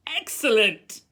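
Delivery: loud, high cry of praise. A narrator's reading. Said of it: "cried Professor Lupin".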